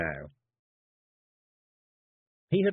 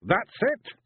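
high, louder Scots warrior, rising, amazed; Rob; 11 semitones higher, 4 dB louder than usual. A narrator's reading. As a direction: marvel at it, wee warrior. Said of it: "he said".

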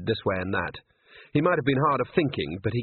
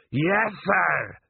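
eager, high-pitched acknowledgement; enthusiastic troll; 8 semitones higher than usual. A narrator's reading. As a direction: answer the order keenly, voice jumping up. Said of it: "said Detritus with considerable enthusiasm".

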